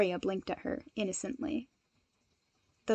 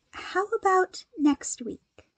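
gentle suggestion; 9 semitones higher, slower than usual. Acted. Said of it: "Momo gently tapped her chin".

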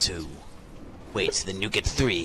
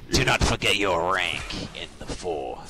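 stern master voice; 4 semitones lower than usual. Acted. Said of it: "from that voice".

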